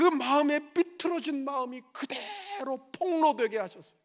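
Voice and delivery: loud, high challenging questions from the pulpit; forceful preaching. Real, not acted. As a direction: fire the questions at them, punching key words. (높고 큰 목소리로 따져 묻듯 설교)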